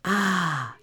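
relaxed "ah" of relief; long, easy mock sigh; imitated contented sigh. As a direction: imitate sinking into a massage. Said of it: "He goes".

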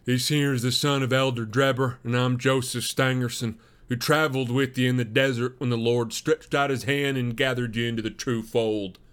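lightly voiced, assertive introduction; young Mormon suitor. Suitor introducing himself and his companion to the farmer, lightly voiced. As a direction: introduce yourselves with a touch of formality.

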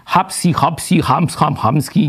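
lightly voiced nonsense syllables; mock speaking in tongues. Teacher parodies glossolalia for the class, lightly voiced. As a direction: toss off made-up tongues sounds as a mild parody. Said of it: "parę jakichś zgłosek powymawia".

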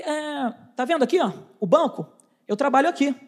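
halting, as if hunting for words; retold stammering. Salesman facing a huge stranger, mildly faltering. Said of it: "eu comecei a gaguejar".

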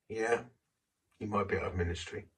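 quick, matter-of-fact echo of the plea; the inner voice answering flatly, not unkind; calm inner voice. Retold or imitated. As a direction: toss the words back lightly. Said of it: "This little voice said".

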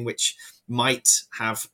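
"might" drawn out slowly, set apart; stress on "might". Real, not acted. Expert cautioning podcast listeners about value, stressing "might". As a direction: lean on "might" with a slow, careful delivery. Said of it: "stress the word might".

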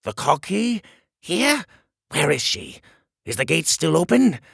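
high, loud panicked questions; alarmed shrill king; horrified. Acted. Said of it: "Now the king looked horrified".

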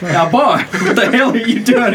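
mock southern scold; southern accent. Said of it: "I did a fucking southern accent".

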